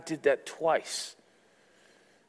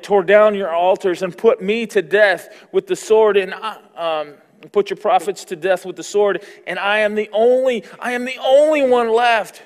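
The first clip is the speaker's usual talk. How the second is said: Elijah's complaint building higher and louder to a cry; anguished Elijah; 6 semitones higher, 9 dB louder than usual. Acted. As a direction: pour out the prophet's despair, rising to the end. Elijah's complaint voiced in scripture.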